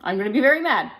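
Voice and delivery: mildly stern dad warning; sternest father voice. Acted. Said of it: "in his sternest father voice".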